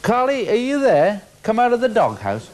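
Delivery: high, loud sing-song call to a dog; bright calling voice for a pet dog. Acted. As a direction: coax the dog out of its doghouse.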